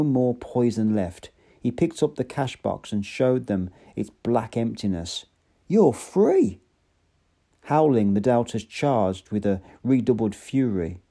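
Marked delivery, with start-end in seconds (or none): 5.7-6.6 high, loud triumphant cry; exultant shouted proclamation. A narrator's reading. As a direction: fling it at the crowd. Savage proclaims freedom to crowd.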